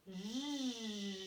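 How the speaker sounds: "J" as a long buzzing "zh", not the letter name; isolated first sound. Shown as a demonstration. Teacher shows which sound comes first, "J" as long "zh". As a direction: hold the consonant sound of "J" on and on. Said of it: "qu'est-ce qui chante en premier".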